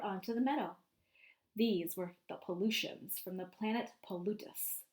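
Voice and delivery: lively storybook narration for a class; picture book read-aloud voice; reading to children. A narrator's reading. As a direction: read it out to the kids, painting the scene.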